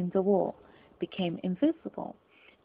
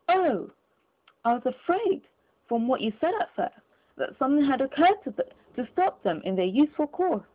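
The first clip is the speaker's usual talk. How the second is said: higher, sarcastic relief; mock relief; 5 semitones higher, 3 dB louder than usual. Scrooge feigns relief to the gentleman, sarcastic.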